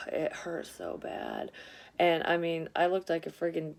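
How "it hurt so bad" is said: slow, quiet, worn out by pain; drained and pained. Real, not acted. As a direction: let the words sag, slow and hushed.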